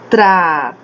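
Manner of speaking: TRA... TO... RES in three beats; teacher counting out the syllables of tratores. Shown as a demonstration. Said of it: "É três vezes que eu falo".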